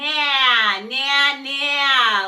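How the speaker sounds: very loud, buzzing, ringing resonance, drawn-out nah. Demonstrating a vocal exercise to learners, in a resonant, buzzy voice. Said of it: "you'll hear your voice fly across the room".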